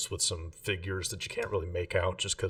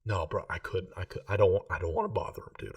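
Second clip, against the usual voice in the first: put-on drunk whisper; faster than usual. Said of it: "loud whisper voice".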